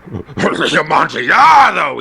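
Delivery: a loud, slow, drawn-out cry; Fortunato's shocked cry from the niche; startled exclamation. Acted. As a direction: blurt it out, stunned. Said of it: "ejaculated my friend".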